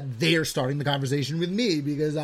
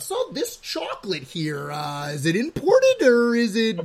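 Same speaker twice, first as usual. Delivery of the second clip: lightly hammed-up chatty customer; mock small talk with a clerk; 5 semitones higher, slower than usual. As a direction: ham up a needy shopper quizzing the clerk. Mocking chat with bodega clerk.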